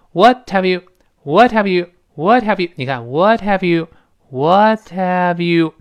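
"What have you" linked, with a faint t; very light t. Shown as a demonstration. Teacher shows the barely heard t in "What have you", light. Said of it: "能听到一个非常轻的t这个声音".

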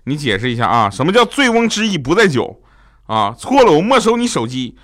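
father losing his temper, climbing high and loud; angry. Retold or imitated. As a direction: build into a mock-parental telling-off. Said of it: "他就发火了". (模仿爸爸越说越火)

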